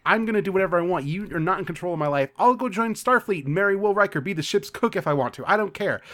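quick rebellious rant, lightly acted; mock defiance. Daughter in huge fight with her mother, mildly defiant. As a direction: reel off threats at a controlling parent. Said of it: "has this huge fight with her mother".

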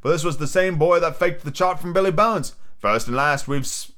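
hint of a pirate sea cook; lightly acted old seadog, oath and all; lightly voiced Long John Silver. Sea cook accuses the boy, lightly voiced pirate.

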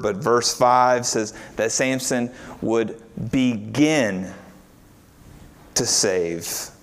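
"begin" slowed and leaned on; emphasize "begin to save"; stress on begin. Shown as a demonstration. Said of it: "trying to emphasize the verb".

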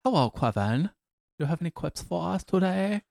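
put-on cartoon kid voice, rising at the ends; cartoonish character voice, climbing high; South Park character voice. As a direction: play a South Park kid greeting a pal. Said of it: "should talk like that".

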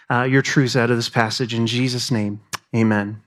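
praying aloud, settling down into a hushed amen; spoken prayer. Real, not acted. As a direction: lead the room in prayer. Leads a prayer.

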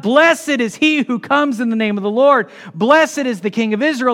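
mildly shouted, imitating the crowd; yelling out. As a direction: call it out like a cheering crowd. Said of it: "they're yelling this out".

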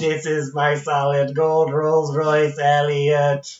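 slow, croaky E T impression. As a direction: drag it out like the alien. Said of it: "E T's like".

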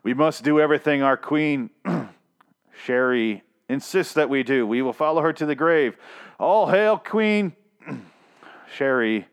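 hammed-up zealot hailing his queen; mock cult follower. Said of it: "terrible leader name. Like".

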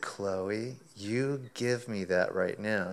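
slow, firm scolding of a dog; slow stern order to the dog; stern command. Retold or imitated. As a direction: lay down the law, slowly.

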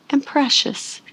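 soft high imitation of a calm wife; calm and precious. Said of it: "and she talked like this".

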